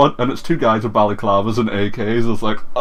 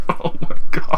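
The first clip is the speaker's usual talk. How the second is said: exasperated; 5 semitones higher, 3 dB louder than usual. Retold or imitated. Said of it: "and I'm just".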